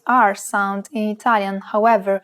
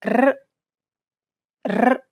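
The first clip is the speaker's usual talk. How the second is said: rolled R sound; 3 semitones higher than usual. Shown as a demonstration. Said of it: "flip your tongue up and back".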